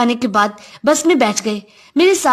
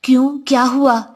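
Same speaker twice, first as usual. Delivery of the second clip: worried. Acted. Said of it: "اس نے پریشانی سے پوچھا".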